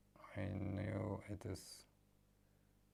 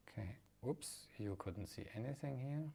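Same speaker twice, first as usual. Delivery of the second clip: muffled; 7 dB quieter than usual. Real, not acted. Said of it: "Sound muffled".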